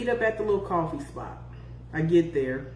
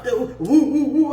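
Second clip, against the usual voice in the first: mock rough woo; 3 semitones higher, 6 dB louder than usual. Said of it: "he was all rough".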